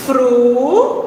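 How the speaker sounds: "Fru-tei-ra" in three syllables with long pauses between. Shown as a demonstration. Teacher writing the word out, syllable-by-syllable "Fru-tei-ra". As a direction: dictate "Fru-tei-ra" slowly, one syllable at a time. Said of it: "vou escrever a palavra todinha".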